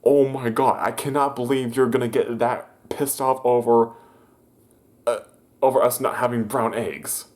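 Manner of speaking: can't believe it, laugh at the end; imitating stunned disbelief; incredulous disbelief. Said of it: "And I'm just like".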